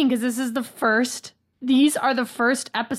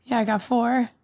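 a bit hoarse, recovering from illness. Real, not acted. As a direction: talk with a hoarse, rough throat. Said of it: "You sound a bit hoarse".

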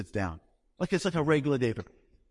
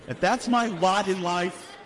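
exasperated resignation; 5 semitones higher than usual. Retold or imitated. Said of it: "I'm like".

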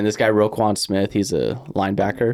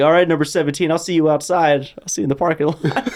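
mock threat; 6 semitones higher than usual. Retold trash-talk threat to opponent.

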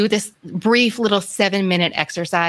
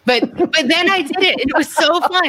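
lightly voiced gushing reader, higher; excited reader quote; 4 semitones higher than usual. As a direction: quote a thrilled fan with rising excitement. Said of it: "the thing we've heard from readers is".

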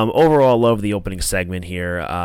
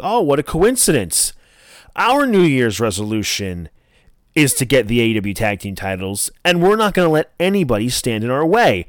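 higher-pitched retold rival taunt; mock challenge; 4 semitones higher than usual. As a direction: toss the challenge back, mildly hammed-up.

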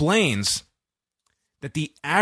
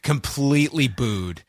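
usual speaking voice

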